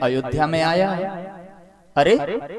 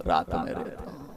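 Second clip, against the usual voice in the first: soft echo; 14 semitones lower, 12 dB quieter than usual. Acted. Moon to Ram, sinking into sorrow. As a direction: drop almost to a hush on रात में रहता हूं. Moon echoes himself softly.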